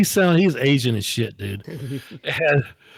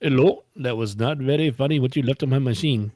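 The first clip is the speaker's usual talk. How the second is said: mock Indian accent. Indian man calling back about the message, mock Indian accent. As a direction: imitate an annoyed caller with an Indian accent. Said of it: "And the guy goes".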